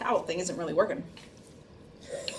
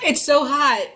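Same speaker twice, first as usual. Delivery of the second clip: laughing; 8 semitones higher, 7 dB louder, slower than usual. Real, not acted. Laughing at the spicy heat.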